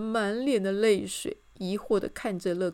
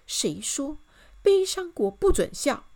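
higher, louder challenge; shocked; 8 semitones higher, 6 dB louder than usual. A narrator's reading. Miss Optimist questions the rule, shocked. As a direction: build to an astonished question. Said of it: "震惊地说".

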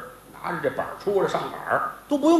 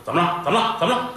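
anxious asking; 3 semitones higher, much faster than usual. Acted. Boss asks urgently what happened.

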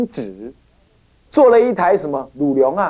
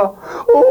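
mock wail; 7 semitones higher than usual. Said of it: "也跟着哭一遍".

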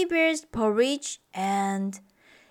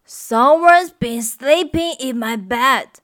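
grumbling Papa Bear; 6 dB louder than usual. Acted. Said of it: "grumbled Papa Bear".

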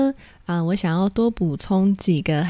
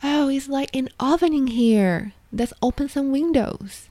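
mock complaint about the heat; 6 semitones higher than usual. Shown as a demonstration. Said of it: "比如说".

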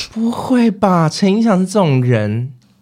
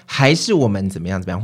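gentle suggestion; 5 semitones lower than usual. Shown as a demonstration. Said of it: "会就会比较和缓。".

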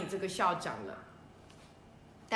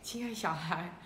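plain reading voice

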